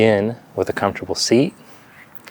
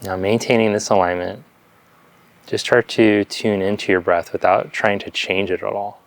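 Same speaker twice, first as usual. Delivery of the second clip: calm meditation guidance with long silences between phrases; unhurried yoga teacher leading breath awareness; guided meditation. Real, not acted. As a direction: guide them gently into stillness, leaving space after each phrase.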